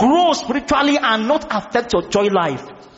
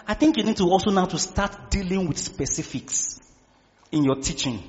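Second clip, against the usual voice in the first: voice of the Lord; 2 semitones lower, 6 dB quieter than usual. Retold or imitated. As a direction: speak quietly as God advising a son. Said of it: "the Lord was speaking to me".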